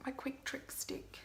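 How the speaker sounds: whisper. Real, not acted. Whispered aside. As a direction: whisper to viewers about quick trick stick. Names product under her breath.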